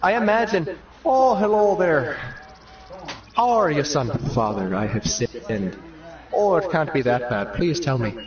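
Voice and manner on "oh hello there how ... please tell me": Irish priest. Acted. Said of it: "Father O'Brien".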